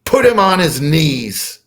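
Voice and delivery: imitated booming command; booming mantis command. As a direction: order it like an alien ruler. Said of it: "the mantis thing says".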